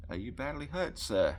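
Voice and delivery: gently concerned question, lifted in pitch; solicitous. A narrator's reading. Boy checking on a fallen rider, mildly solicitous. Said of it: "he asked solicitously".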